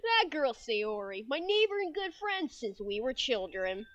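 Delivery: lightly voiced game protagonist; Scrimp. Mascot introduces the childhood friend, lightly put-on character voice. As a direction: narrate with a hint of character. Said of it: "This is Scrimp's voice now".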